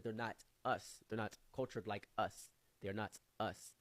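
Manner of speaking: put-on slow, measured African accent; imitated African friend. African friend explaining who belongs, slow imitated accent. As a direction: insist slowly in an African accent. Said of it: "He said".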